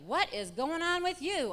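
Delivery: high, loud retold bewilderment; astonished demand. Daughter finds mother dancing around, astonished. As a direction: voice an amazed teenager confronting mom.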